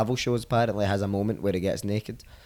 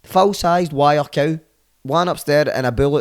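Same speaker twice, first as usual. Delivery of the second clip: loud, slow, pitched-up outrage; indignant emphasis; 5 semitones higher, 8 dB louder, slower than usual. Real, not acted. Diner complaining about no steaks, slow loud indignation. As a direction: stress huge and full-sized.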